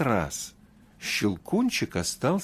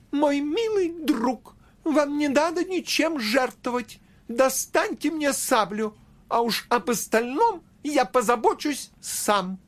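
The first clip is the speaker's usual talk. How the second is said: Nutcracker voice; 13 semitones higher than usual. A narrator's reading. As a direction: speak as the brave toy. Nutcracker speaks to Marie.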